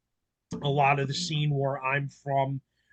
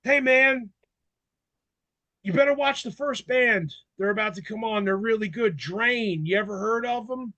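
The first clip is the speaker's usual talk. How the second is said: friendly rocker tip; 5 semitones higher than usual. Retold or imitated. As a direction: talk the kid into catching the opener. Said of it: "And he goes".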